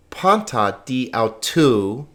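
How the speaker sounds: "panta di au tu" read slowly, word by word; slow careful pronunciation. Shown as a demonstration. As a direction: model "panta di au tu" slowly for a learner. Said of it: "because the accent is here".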